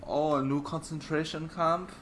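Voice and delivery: high, loud, feigned astonishment; mock surprise. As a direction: exclaim it in mock disbelief. Mocking the company's surprise.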